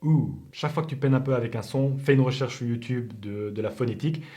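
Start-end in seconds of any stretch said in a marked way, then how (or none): 0.0-0.4 "Ou" held as a long English OO; tongue back, lips rounded on "Ou"; isolated OO vowel. Shown as a demonstration. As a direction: show the vowel of food alone, "Ou". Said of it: "le ou dans par exemple food".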